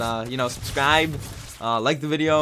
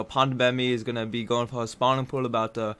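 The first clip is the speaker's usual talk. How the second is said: put-on British accent. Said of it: "that's a terrible British accent".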